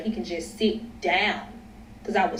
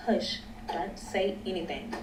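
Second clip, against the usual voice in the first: retold whisper; 10 dB quieter than usual. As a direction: quietly shush him, as if whispering. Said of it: "I'm whispering like".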